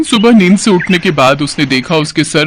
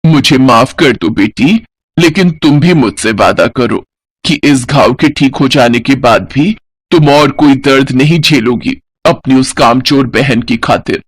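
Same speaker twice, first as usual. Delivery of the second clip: tender apology; 5 semitones lower than usual. Acted. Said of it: "बड़े प्यार से बोली".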